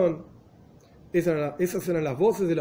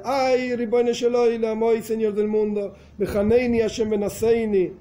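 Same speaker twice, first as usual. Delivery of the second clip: pleading prayer; 4 semitones higher than usual. Retold or imitated. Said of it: "Este otro decía".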